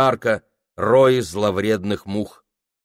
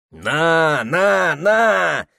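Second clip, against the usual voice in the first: high, insistent repeated cries; clerks jabbing; 7 semitones higher, 5 dB louder, much slower than usual. Acted. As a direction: push it in their faces.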